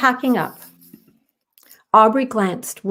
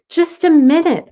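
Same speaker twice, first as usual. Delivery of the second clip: higher, louder reply; calling back; 8 semitones higher, 7 dB louder than usual. Acted. Aubrey answering Maya from a distance, calling back. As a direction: shout back over the beach. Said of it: "Aubrey called back".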